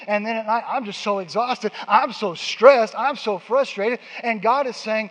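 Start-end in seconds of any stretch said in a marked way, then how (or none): 0.7-4.0 drawn-out stressed moan. Retold or imitated. Exhausted worrier at night.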